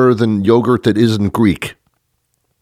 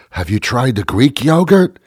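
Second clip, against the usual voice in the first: raised, hammed-up recommendation; mock enthusiasm; 4 semitones higher than usual. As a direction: gush as a convert to a food fad. Imitates people hyping Greek yogurt.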